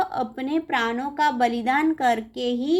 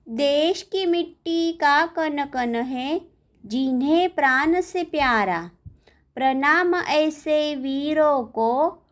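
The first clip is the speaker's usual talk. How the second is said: poem recitation. Acted. Teacher reading a patriotic poem to pupils, measured recitation. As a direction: recite line by line, pausing after each phrase.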